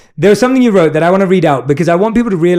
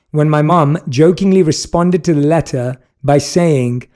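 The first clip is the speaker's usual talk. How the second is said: put-on British accent. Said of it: "read it in my British accent".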